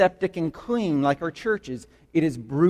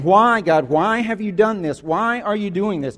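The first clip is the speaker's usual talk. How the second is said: retold screaming.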